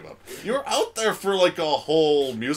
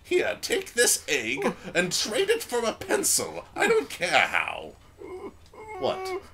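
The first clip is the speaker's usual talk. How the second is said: lightly voiced creaky old man; a hint of a grumpy old geezer; 5 semitones higher than usual. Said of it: "old man".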